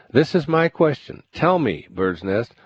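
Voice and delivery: high, insistent official; eager governor. Acted. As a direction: press him for an answer. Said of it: "The governor continued".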